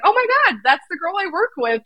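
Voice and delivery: high, surprised gasp of recognition; retold surprise. Telling the hosts about seeing her coworker play, retold high surprise. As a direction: replay the moment you spot her on the field.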